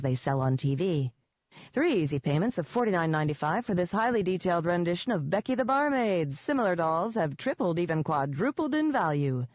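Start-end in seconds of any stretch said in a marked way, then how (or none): 1.7-9.5 TV ad voice. A narrator's reading. Mock TV doll commercial.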